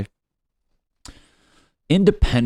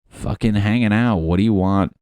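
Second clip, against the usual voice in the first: annoyed retort; 6 dB louder than usual. Acted. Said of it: "We're like".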